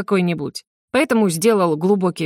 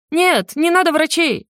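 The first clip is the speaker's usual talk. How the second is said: shouting after him; 9 semitones higher than usual. A narrator's reading. Prince shouts after the departing dragon to refuse doctors. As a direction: call out desperately after someone leaving. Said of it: "крикнул мне в спину".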